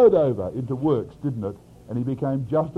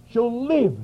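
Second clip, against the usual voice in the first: "live" pitched up high and emphatic; underscored key word; 8 semitones higher, 4 dB louder than usual. Shown as a demonstration. Preacher underscoring Hebrews' cardinal word, stress on LIVE. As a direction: lift and lean on "live". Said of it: "Paul underscores every cardinal word".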